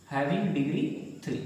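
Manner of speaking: very slow, each word drawn out for notes; slow teacher's dictation pace. Shown as a demonstration. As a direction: spell it out slowly so the class can write.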